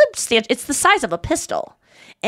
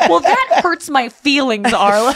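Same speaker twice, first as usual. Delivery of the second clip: imitated hurt mom; 3 semitones higher, slower than usual. Imitating mom answering her grandson, mock hurt. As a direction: lightly voice a wounded grandma, drawn out. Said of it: "My mom goes".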